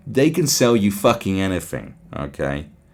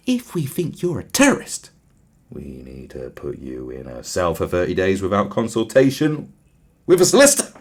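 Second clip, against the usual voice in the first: mock official; 3 semitones lower than usual. Voicing the government.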